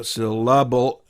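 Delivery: SYLLABLE drawn out slowly as syl-la-bull. Shown as a demonstration. Teacher demonstrating syllables in a word, syllable said piece by piece. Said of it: "they have syl as one syllable".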